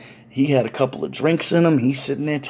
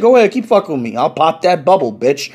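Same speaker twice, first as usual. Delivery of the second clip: whitest voice; 3 semitones higher, 5 dB louder than usual. Retold or imitated. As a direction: talk tough in a very white voice. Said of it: "in the whitest voice".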